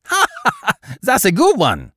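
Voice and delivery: high, loud burst of laughter; hearty laugh. A narrator's reading. Gloomy Baron laughs for the first time, high loud laugh. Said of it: "the Baron had laughed".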